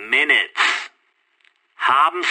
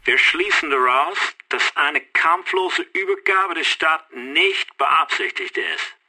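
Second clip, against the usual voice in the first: officer's ultimatum down a phone line; measured threat through a telephone receiver. Acted. Canadian caller sets a deadline for surrendering the city, telephone voice. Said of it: "höre die Stimme".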